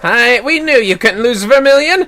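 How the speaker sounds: high, loud delight; awed children. Acted. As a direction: cheer the champion. Children celebrate.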